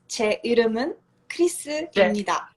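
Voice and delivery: 제 이름은 크리스입니다 said fast and polite; teacher showing the polite form; formal Korean model. Shown as a demonstration. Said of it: "You can say".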